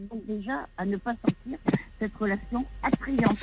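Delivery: drifting off the mic, faint on the line; far from phone. Real, not acted. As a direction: voice fading away from the phone. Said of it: "je vous entends plus".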